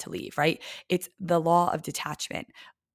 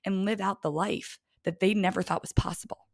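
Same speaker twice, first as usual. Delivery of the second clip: near tears. Real, not acted. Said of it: "I could start crying".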